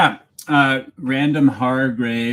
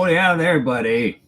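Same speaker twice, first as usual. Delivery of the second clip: mock Canadian Manitoba twang, higher and louder; Manitoba accent; 5 semitones higher, 3 dB louder than usual. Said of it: "That's where the accent comes from".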